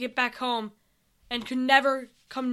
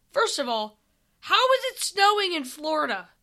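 higher-pitched, incredulous question; mild disbelief; 5 semitones higher, 4 dB louder than usual. Acted. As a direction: ask it as if it makes no sense. Sam questions the impossible snow.

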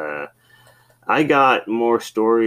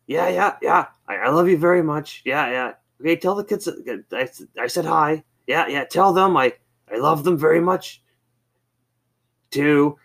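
loving dad imitation; 8 semitones higher than usual. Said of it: "he was on the phone".

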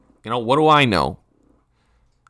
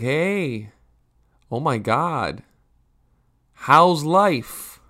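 gushing greeting; 4 semitones higher, much slower than usual. Retold or imitated. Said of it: "And it's like".

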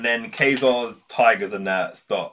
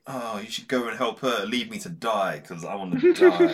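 mocking a mopey hero begging to be left to die; mock self-pity. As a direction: ham up a sulky martyr. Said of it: "to the pity party".

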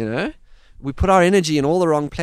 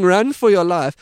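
somewhat louder half-hearted yell; a mild mock shout of "Run for your life."; mild mock scream; 3 semitones higher, 5 dB louder than usual. Beekeepers shouting while driving past, mild mock yell.

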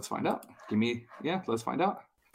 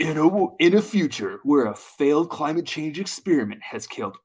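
movie trailer guy voice. Acted. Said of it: "in your movie trailer guy voice".

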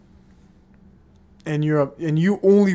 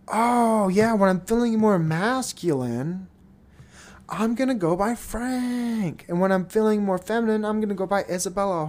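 higher, mock-excited faker voice; lightly voiced attention-seeking poster, higher; mock TikToker; 5 semitones higher than usual. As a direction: pitch it up like a gushing poser. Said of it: "they can all of a sudden".

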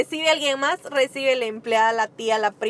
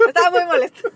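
louder, pressed out with irritation; annoyed emphasis; 4 semitones higher, 5 dB louder, faster than usual. Retold or imitated. To her co-host, recalling the client, louder and annoyed. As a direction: lean hard into the annoyance. Angry at late-paying client.

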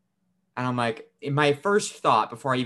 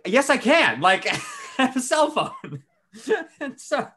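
higher, laughing through the reply; laughing while insisting to grandma; 13 semitones higher, 5 dB louder, slower than usual. Real, not acted. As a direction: crack up mid-sentence.

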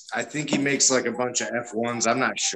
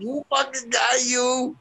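much higher squeaky mock voice; 14 semitones higher than usual. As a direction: pitch it way up to tease. Mock voice at friends.

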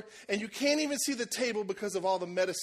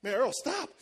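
urgent shout; 4 semitones higher than usual. Retold or imitated. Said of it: "And I'm like".

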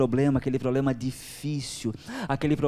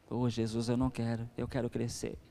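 humble prayer; 6 semitones lower, 7 dB quieter than usual. Retold or imitated.

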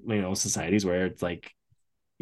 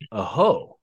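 put-on Italian accent. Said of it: "in his Italian voice".

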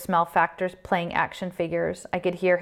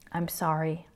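subdued apology; 7 dB quieter than usual. A narrator's reading. Told he made her apologize for dying, a subdued apology. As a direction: offer it quietly, chastened. Chastened reply to an angry father.

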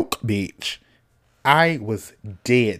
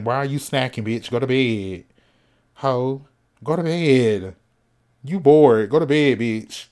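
a bossy self-scolding, slightly louder; tough-love coach ordering herself to bed; 4 dB louder than usual. Shown as a demonstration. Late-night snacker scolding herself to go to bed, bossy. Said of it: "I have to talk to myself like that".

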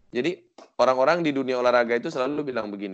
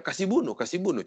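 higher-pitched mock Makassar accent; imitating Makassar speech; 6 semitones higher than usual. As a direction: quote it like someone from Makassar. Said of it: "Sulawesinya yang Makassar misalkan".

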